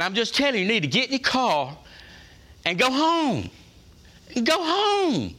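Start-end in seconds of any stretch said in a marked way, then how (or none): 2.6-3.5 stern send-off, pitch climbing on home; firm dismissal. Acted. Preacher tells the unwilling to leave, stern. 4.4-5.3 emphatic repeat. Acted. Preacher repeats to the unwilling, emphatic and higher.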